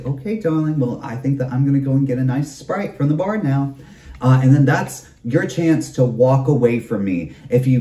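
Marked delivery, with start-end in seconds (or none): 0.0-3.7 polite brush-off. Retold or imitated. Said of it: "I'm gonna say".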